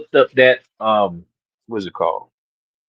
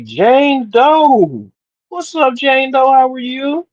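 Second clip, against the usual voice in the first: high sing-song greeting; 14 semitones higher, slower than usual. Real, not acted. Greeting viewer in high held voice.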